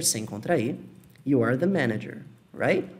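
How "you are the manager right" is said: "You are the manager" with full "you are"; "You are the manager" without contraction; uncontracted, slower. Shown as a demonstration. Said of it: "na segunda eu não contraí".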